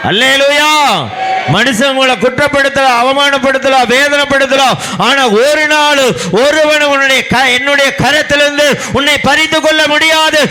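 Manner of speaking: high, fervent preaching building to a pitched cry; full-force preaching. Acted. Preacher voicing God's promise to the rejected, full-force preaching.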